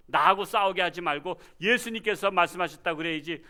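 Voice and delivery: normal talking voice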